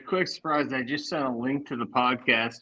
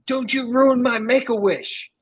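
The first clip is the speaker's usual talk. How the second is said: much higher, slow, whiny mock plea; 10 semitones higher, 4 dB louder than usual. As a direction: play the pitiful Make-A-Wish kid to shame her. Fends off a complaining old lady.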